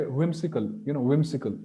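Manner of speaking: 'whimsical' starting with lips rounded, teeth off the lip; English W. Shown as a demonstration. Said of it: "the pronunciation of W".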